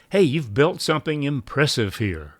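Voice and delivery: curious compliment, then hold the pause; lightly curious, inviting a reply. Shown as a demonstration. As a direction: sound eager to hear the story. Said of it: "expressive tone that suggests curiosity".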